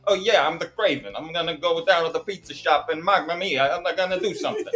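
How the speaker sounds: half-hearted Bronx tough-guy impression; mock Bronx accent. Host mocks the actor's Bronx accent as Kraven, lightly played. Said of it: "talking like he's from the Bronx".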